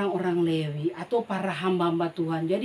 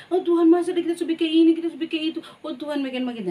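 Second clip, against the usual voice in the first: mock complaining; 7 semitones higher, 5 dB louder, much faster than usual. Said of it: "Jangan bilang".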